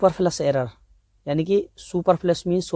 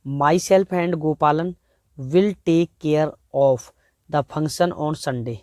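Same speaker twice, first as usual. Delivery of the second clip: very slow, careful reading of a test sentence; slow dictation; much slower than usual. Shown as a demonstration. Teacher reads the exam sentence aloud, very slowly. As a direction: read it word by word for the students. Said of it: "next".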